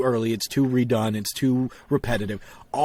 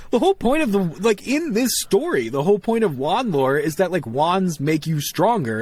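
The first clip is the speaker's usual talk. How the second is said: exasperated; 2 semitones higher than usual. Retold or imitated. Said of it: "I'm like".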